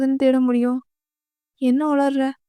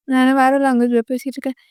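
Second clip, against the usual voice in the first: quick, exasperated retort; irritated retort; faster than usual. Acted. Irritated girl answers someone who didn't understand her, quick exasperation. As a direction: rattle it off in annoyance.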